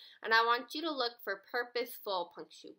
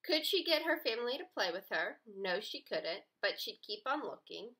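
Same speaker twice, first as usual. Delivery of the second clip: put-on reading aloud to children. Shown as a demonstration. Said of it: "It would say".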